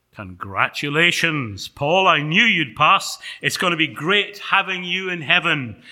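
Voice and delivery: loud, rising celebration; delighted congratulations. Acted. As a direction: congratulate your hero with gusto. Angel announces Paul has passed.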